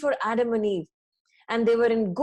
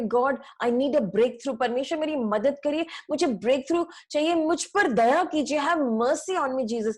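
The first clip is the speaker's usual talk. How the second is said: desperate plea to God; 2 semitones higher than usual. Pretend. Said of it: "जब आप तड़प तड़प करके गॉड से बात करें".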